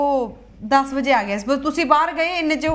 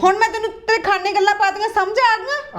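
higher-pitched ticking-off; stern scolding; 5 semitones higher than usual. Acted. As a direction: scold and demand agreement. Sister-in-law scolds, demands agreement.

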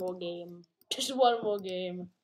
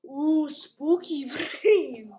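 slow, laughing mock spooky; laughing ooh; 5 semitones higher, 7 dB louder, much slower than usual. Real, not acted. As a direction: draw out a giggly ooh. Reacting to a spooky character.

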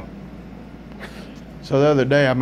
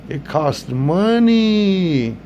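mock accent; 5 semitones higher, much slower than usual. Comedian voices restaurant worker.

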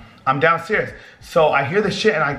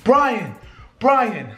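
mock scream for help, pitched up; retold scream; 4 semitones higher than usual. Calling his brother after a break-in, mock screaming. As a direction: call out his name, higher, drawn down at the end. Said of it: "I start screaming".

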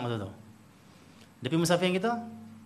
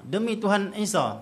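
mild annoyance; 7 semitones higher, 4 dB louder, slower than usual. Retold or imitated. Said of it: "Bila mana kamu kalau marah".

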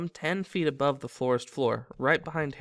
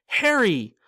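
loud, higher call with relief; relieved shout; 8 semitones higher, 7 dB louder than usual. Acted. Ron to Harry, spotting the car, relieved shout. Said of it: "Ron shouted, voice breaking with relief".

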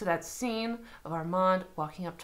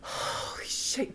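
stunned whisper; 5 dB quieter, slower than usual. Real, not acted. Still stunned.

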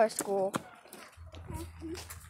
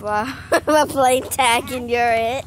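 laughing through the words; 11 dB louder, slower than usual. Acted. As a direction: giggle as you say it. Repeats line laughing, louder.

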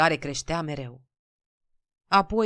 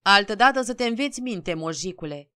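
higher, louder cutting reprimand; hissed rebuke; 3 semitones higher, 6 dB louder than usual. A narrator's reading. Stationmaster throwing tickets at a peasant, angry rebuke. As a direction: teach a lout a lesson. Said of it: "îi sâsâi șeful".

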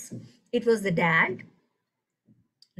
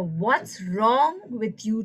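slow accusing what's wrong with you; judging mindset; much slower than usual. Shown as a demonstration. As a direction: drag it out like a reproach. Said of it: "shift our mindsets from".

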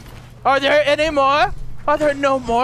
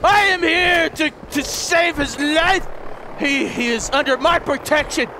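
mock heroic declaration; 4 semitones higher than usual. Player declaring to mutants he came to rescue Rex. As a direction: announce it like a comic-book hero.

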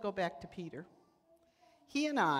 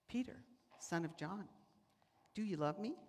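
softer, tender ask; Jesus quietly asking Peter; gentle question; 6 dB quieter than usual. Retold or imitated.

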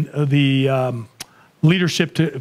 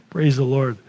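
laughing praise; 3 semitones lower than usual. Real, not acted. Laughing praise ending story.

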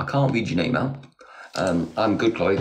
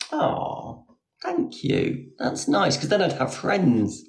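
sarcastic thanks; 8 semitones higher, slower than usual. Real, not acted. Sarcastic reply to hurtful comment.

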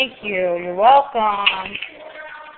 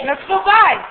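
coaxing singsong; 10 semitones higher, 4 dB louder than usual. Shown as a demonstration. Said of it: "Come on".

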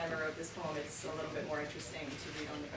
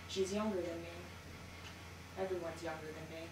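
bitter resignation; slower than usual. Acted. Lover's bitter admission.

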